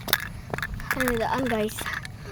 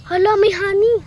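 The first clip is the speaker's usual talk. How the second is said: surprised; 5 semitones higher, 6 dB louder than usual. Real, not acted. Finding honey.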